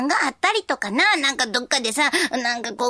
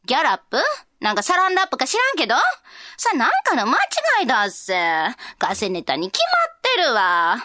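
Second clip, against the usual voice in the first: loud nosy osaka auntie. Acted. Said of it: "っていう、ダンさん。".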